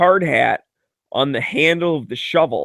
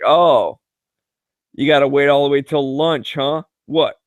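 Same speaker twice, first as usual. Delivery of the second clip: sarcastic jab; slower than usual. Retold or imitated.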